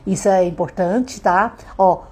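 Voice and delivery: ordinary delivery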